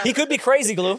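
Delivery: giggling out the suggestion; laughing. Real, not acted. Laughing while suggesting a joke.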